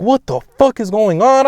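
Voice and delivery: high, loud bewildered outcry; acted panicked confusion. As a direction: replay freaking out, high and loud. Retold panic while tripping.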